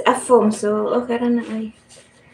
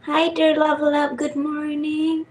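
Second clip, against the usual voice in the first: put-on baby talk; 5 semitones higher than usual. Greeting baby in high voice.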